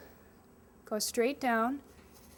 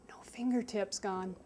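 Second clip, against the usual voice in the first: whisper; 5 dB quieter than usual. Real, not acted. Safety joke during knife lesson.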